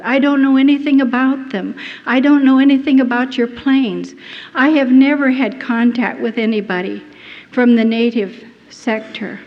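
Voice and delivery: loud, firm denials to the interrogator; retold defiant answers. Prisoner answering her interrogators, loud and firm. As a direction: insist on innocence, raising the voice. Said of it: "I would answer their questions".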